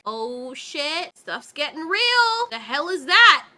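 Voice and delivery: mock alarmed owl. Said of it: "it's like".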